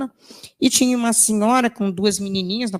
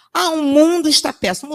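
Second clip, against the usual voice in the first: mock complaint; 6 semitones higher, 6 dB louder than usual. Mocking typical complainer.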